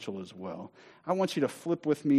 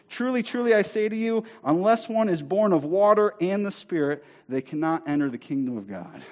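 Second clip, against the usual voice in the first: emphatic preaching; 5 semitones higher than usual. Acted. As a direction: drive each phrase home from the pulpit. Preaching verse with forceful emphasis.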